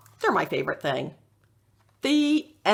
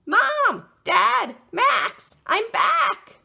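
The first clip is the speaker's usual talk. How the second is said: calling out; 13 semitones higher, 6 dB louder, much slower than usual. Acted. Dog calling family at tent.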